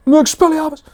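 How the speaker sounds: a high, loud wizard incantation; spell cast. Pretend. Streamer shouting a Harry Potter spell, high. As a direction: fling the spell out like a duel.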